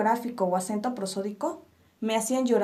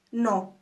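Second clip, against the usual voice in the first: "no" as a separate unstressed syllable; "no" set apart after a pause; sílaba por sílaba. Shown as a demonstration. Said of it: "dividimos nuestra palabra en sílabas". ("no" como sílaba suelta y átona)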